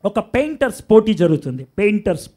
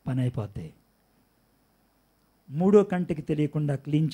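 hushed secret offer; 8 semitones lower, 5 dB quieter than usual. Acted. God speaks privately to sinner.

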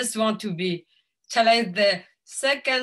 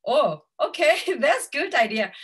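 higher, louder mock-surprised reaction; retold pleased surprise; 5 semitones higher, 4 dB louder than usual. Speaker recalls her answer to the partner news, pleasantly surprised. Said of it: "I was like".

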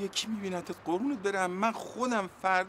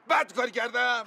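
defiant shout. Acted. Man defending the loan he took, defiant shout.

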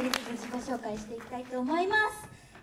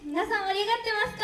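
fast, higher call to the crowd; asking the crowd if they're hyped, calling out; crowd hype call; 4 semitones higher, faster than usual. Real, not acted. Idol hyping the crowd.

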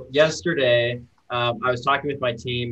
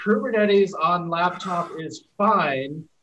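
slower, higher-pitched emphatic quote; 4 semitones higher, slower than usual. Retold or imitated. Reading a slide back to its author, very emphatic. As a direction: read the slide out with slow, deliberate weight. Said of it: "very emphatically".

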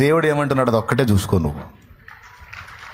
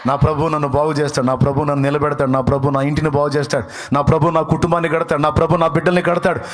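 building preaching; 4 dB louder than usual. Acted. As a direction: climb to a triumphant cry. Builds to a shouted declaration. (క్రమంగా పెరిగే ఉత్సాహ ప్రసంగం)

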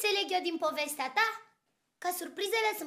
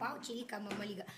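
mock crying; 8 semitones lower, 12 dB quieter than usual. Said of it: "M-am emoționat".

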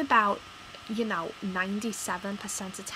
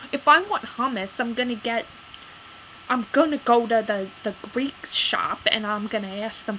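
much louder, worked up; heated rant; 6 dB louder than usual. Real, not acted. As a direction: vent it all out. Ranting about the store.

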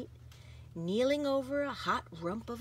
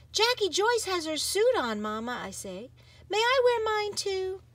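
put-on higher, pleading little girl; eager child; 11 semitones higher, 4 dB louder than usual. Girl asking mama eagerly to wear her suit too. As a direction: ask hopefully like a child.

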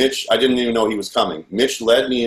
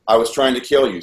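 firm, slightly raised dictating voice; retold insistent dictation; 3 semitones higher than usual. Captor orders him to confess, retold insistent dictation. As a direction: press the words on the listener.

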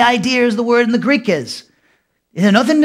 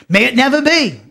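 emphatic "May it never be", raised in pitch; 4 semitones higher than usual. Retold or imitated. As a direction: declare "May it never be" as a firm refusal. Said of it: "He's emphatic".

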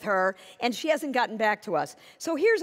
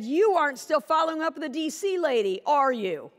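accusing reread; 3 semitones higher than usual. Retold or imitated. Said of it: "It said".

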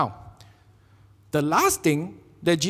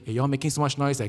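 annoyed shushing; 6 dB quieter than usual. Pretend. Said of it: "Was he angry with the children?".

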